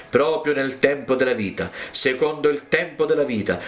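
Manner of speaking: understated prophetic declaration; prophetic pronouncement. Acted. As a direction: proclaim it as a prophet's promise. Prophet solemnly promises a son.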